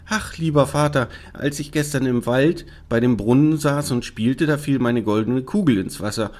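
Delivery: hint of a daughter confessing to her father; troubled princess. Princess explaining the frog to her father, mildly distressed.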